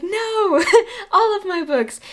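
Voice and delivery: high, breaking into real laughter; laughing. Real, not acted. To viewers, picking one book from a burning house, laughing. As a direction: laugh it out, giving up on choosing.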